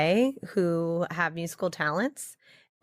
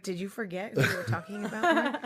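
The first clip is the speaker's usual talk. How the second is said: laughing mock question. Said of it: "I was like".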